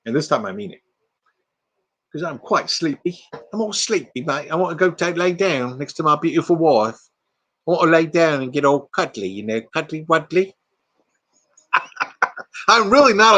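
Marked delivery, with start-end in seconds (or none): 2.1-10.5 sleepy, playful British voice; mock British accent, cutesy and tired; put-on British accent. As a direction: play a drowsy Brit ready for bed. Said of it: "Y'all got me started on the voices".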